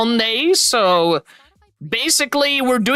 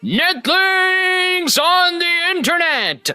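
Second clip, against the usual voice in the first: excited greeting; 7 semitones higher, slower than usual. Real, not acted. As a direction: welcome the crowd with big energy. Big stream opening greeting.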